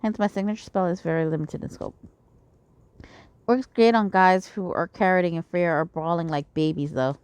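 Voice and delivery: reading a character's lines aloud; lightly voiced scheming schemer; game dialogue read in character; voicing a game character.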